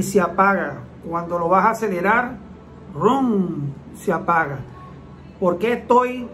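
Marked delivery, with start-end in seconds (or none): 2.9-3.7 imitated engine rev. Shown as a demonstration. Imitates engine revving before stalling.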